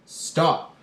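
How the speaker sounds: sharp, loud, high Stop; police officer command. Acted. Police officer ordering someone to halt, loud and firm. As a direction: stop them like a cop on duty. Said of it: "Imagine a police officer says".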